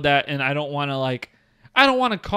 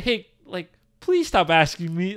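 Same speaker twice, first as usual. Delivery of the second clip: calm polite request; slower than usual. Shown as a demonstration. Showing his calm request to the girl, slow and gentle. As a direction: ask her to stop, slow and gentle. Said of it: "I was literally like this".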